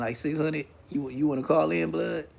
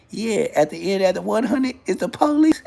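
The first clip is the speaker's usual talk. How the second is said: laughing; 5 semitones higher than usual. Real, not acted. Punchline through laughter.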